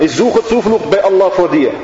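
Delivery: lightly voiced frightened girl, pleading; a touch of a scared plea for protection; girl seeking refuge. The dying girl pleading against the devil, mildly scared. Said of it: "Sie sagt".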